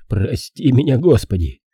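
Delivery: exclaimed at normal volume; exasperated oath. Acted. Detective scolding the young girl, exasperated oath. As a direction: call on God in exasperation.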